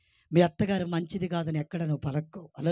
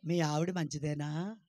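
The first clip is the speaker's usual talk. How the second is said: slow, deliberate model answer; slow, patient teaching voice; slow demo answer; slower than usual. Shown as a demonstration. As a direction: spell it out slowly for the congregation. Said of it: "అను".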